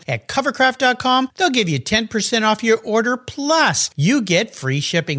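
polished, emphatic podcast ad delivery; sponsor ad read. Acted. Host pitching Covercraft car covers to listeners, polished ad read. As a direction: sell it to listeners, crisply emphasised.

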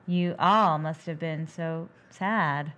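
slow, flat pity; imitating a wooden actress; mock deadpan. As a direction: drag it out with no feeling. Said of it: "she's like".

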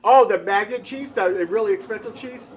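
high, loud sudden realization; oh, that cheese; surprised. Real, not acted. Surprised realization about maggot cheese.

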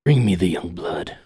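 lightly voiced archaic villain; old English. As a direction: intone it like old English scripture. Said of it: "talking like an old English".

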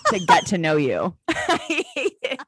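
real laughter through the words; laughing complaint. Real, not acted. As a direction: rant while cracking up.

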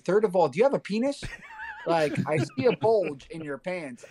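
fast, laughing outburst of a joke; laughing shout. Real, not acted. Ranting, laughing.

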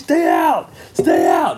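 loud, urgent command; urgent warning. Retold or imitated. Dad fighting the mouse, loudly telling his wife to stay out. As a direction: bark it to keep her out.

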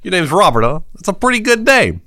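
put-on a doll stealing the boy's name, menacing; hammed-up sinister doll; creepy doll. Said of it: "He's like".

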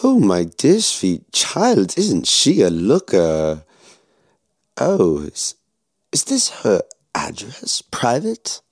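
a cold villain toying with his prisoner; menacing German officer. Acted. Officer mocks the soldier's sweetheart photo.

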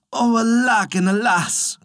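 high, acted peasant's wail; lamenting cry. A narrator's reading. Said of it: "cried the poor peasant man".

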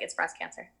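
breathless whispered panic; a frightened half-whisper to herself; panicked whisper. Retold or imitated. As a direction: whisper it like the worst fear just hit. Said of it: "I'm freaking out".

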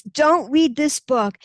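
slow sly warning; sly inner voice. Retold or imitated. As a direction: spell it out like the voice that wants you hooked. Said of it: "is written by that voice".

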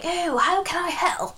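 high, slow, sugary posh offer of help; imitating a posh southerner; posh polite voice. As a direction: put on a lightly posh helpful tone. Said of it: "they put this tone of voice on".

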